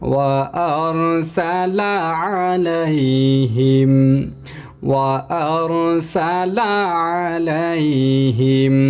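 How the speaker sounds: "আলাইহিম" with ain pressed from mid-throat; slow recitation, "আলাইহিম" with throaty ain. Shown as a demonstration. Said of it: "আইনকে চাপ দিয়ে গলার মধ্যখান থেকে".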